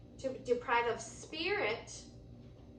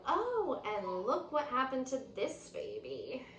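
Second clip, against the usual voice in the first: put-on a touch of alarm at the stranded baby; crying out; 2 semitones higher than usual. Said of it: "cried Clementine".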